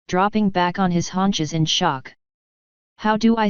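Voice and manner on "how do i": sputtering in disbelief; indignant, caught off guard. Acted. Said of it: "Sapphire sputtered".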